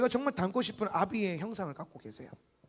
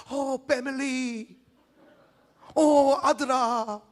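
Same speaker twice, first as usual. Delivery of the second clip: mock family greeting; 3 semitones higher, 3 dB louder, much slower than usual. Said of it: "막 이래요".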